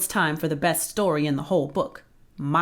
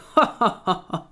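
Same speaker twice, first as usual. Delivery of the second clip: ugly giant laugh; 2 semitones higher, 4 dB louder than usual. Acted. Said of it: "The giant laughed an ugly laugh".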